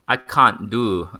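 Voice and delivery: slow, stretched mock English accent; attempted English accent. Shown as a demonstration. Host failing at an English accent, drawn-out and mock. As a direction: try "can't" with an English broad vowel. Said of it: "I can't do the English accent".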